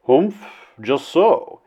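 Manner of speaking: slow, dry "Humph, just so". A narrator's reading. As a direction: grunt it skeptically. Flynn dry interjection.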